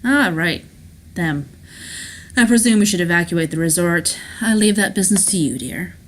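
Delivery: breezy delegation in a light character voice; self-assured schemer Rourke, dismissive. Acted. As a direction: brush off the guests' safety.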